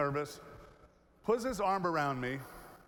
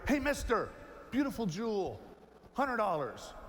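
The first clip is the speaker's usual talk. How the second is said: put-on street kid hawking; 3 semitones higher than usual. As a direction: call out to a tourist like a kid selling trinkets. Kid calls out again.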